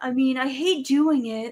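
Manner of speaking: high, long, stretched-out drawling voice. Imitating a commentator who gets rid of people: drawn-out voice. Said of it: "drawn out voice".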